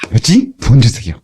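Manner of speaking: light, glad request; cheerful asking. Shown as a demonstration. Preacher shows how to ask God joyfully. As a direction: ask brightly, happily expecting. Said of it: "구할 때는 기쁘게".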